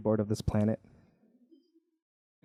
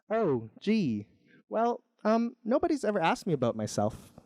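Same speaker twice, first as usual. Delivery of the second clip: lightly voiced hesitant snail, higher pitch; a hint of a modest, unsure snail; shy snail; 5 semitones higher than usual. Hesitant snail answers Jomny.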